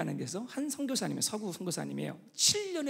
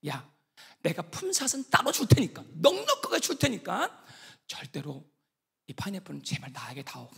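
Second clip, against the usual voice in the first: retold persuasion; 2 semitones lower than usual. Missionary bargains for his pineapple, persuading. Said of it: "설득했어요".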